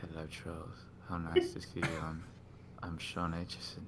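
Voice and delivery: low, soft, hushed, purring gentleman voice. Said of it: "And he was like".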